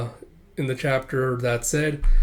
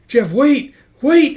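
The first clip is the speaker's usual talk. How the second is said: loud, high cry, building; desperate calling; 12 semitones higher, 10 dB louder, much slower than usual. Acted. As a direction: call after them, louder each time. Crying out to be waited for.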